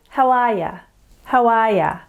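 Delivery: "How are ya?" run together like one word; tone unit. Shown as a demonstration. Teacher showing tone units, "How are ya?" as one word. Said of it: "it sounds like one word".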